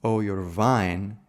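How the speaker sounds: slowed mock Eastern European "wine", opening on a v; faux Romanian accent. Shown as a demonstration. Lecturer showing how the page signals the accent, faux Romanian. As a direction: say "wine" as "vine", like a stage Romanian. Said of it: "signal this accent, such as".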